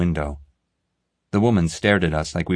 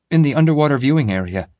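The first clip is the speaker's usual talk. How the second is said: gasped; 8 semitones higher, 5 dB louder, faster than usual. A narrator's reading. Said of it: "I gasped".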